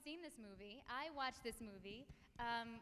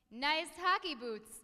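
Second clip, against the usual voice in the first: put-on Canadian accent; 8 dB louder than usual. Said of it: "They also say such things as".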